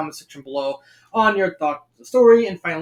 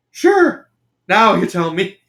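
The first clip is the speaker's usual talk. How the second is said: irritated Shaggy; 3 semitones higher, 6 dB louder, slower than usual. Acted. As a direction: play an annoyed goofy pal. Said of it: "replies an irritated Shaggy".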